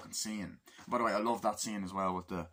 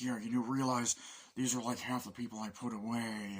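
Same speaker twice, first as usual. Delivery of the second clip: lightly altered Cage voice; imitating Cage; 3 semitones higher than usual. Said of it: "he's like".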